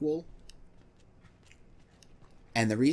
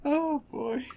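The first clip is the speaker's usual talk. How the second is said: laughing. Real, not acted.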